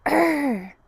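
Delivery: a half-hearted little warrior growl; growl, but not quite meaning it; weak growl. Shown as a demonstration. Teacher's first try at a warrior growl, too timid. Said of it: "that didn't sound like business".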